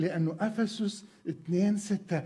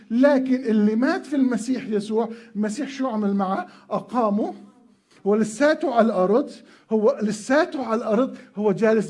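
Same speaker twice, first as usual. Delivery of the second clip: preaching loudly; 5 dB louder than usual. Real, not acted. Preacher rising to a climax.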